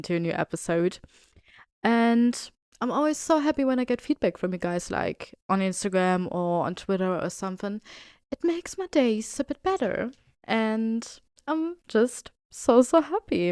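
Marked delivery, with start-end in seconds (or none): 1.8-13.5 gushing gratitude, lifting at the end; emotional. Real, not acted. Host thanking listeners for feedback, emotional. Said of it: "enough with the emotional talk".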